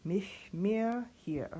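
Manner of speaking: slow, carefully spoken German text; teacher reads the whole page back; slow German diction reading. Shown as a demonstration. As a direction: read each German word slowly and clearly. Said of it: "Practicing this whole page".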